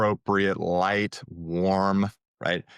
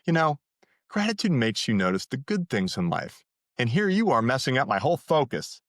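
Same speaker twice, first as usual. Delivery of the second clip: teasing and flirty with a little edge; playful flirty edge; 3 semitones higher than usual. Shown as a demonstration. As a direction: toss it off like a playful dig. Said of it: "You say it playfully, flirty, little edge".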